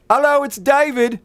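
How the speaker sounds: very high, caricatured English greeting; mock English accent. British actor back at the trailer door, high mock English accent. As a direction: announce yourself in a squeaky put-on English accent. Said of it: "he has an English accent now".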